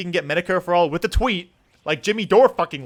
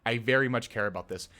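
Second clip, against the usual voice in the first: real, restrained frustration; quiet seething; 9 semitones lower, 11 dB quieter than usual. Real, not acted. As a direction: lower and much softer, held-in anger. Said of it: "pisses me off".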